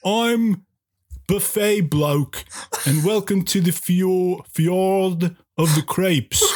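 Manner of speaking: slow, halting, badly faked French accent; mock French accent. Caller plays the restaurant's host, in a mock French accent. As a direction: greet them grandly in a dubious French accent. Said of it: "I'll do my best French accent".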